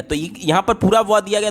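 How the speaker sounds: ordinary delivery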